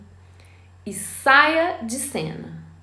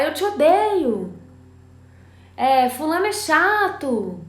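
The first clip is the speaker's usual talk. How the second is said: imitating angry child; 5 semitones higher than usual. Child voiced saying I hate you.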